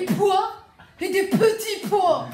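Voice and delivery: loud, slow, spraying every p; spitting while talking. Shown as a demonstration. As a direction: spit out each p loudly. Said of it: "Celui qui postillonne le plus".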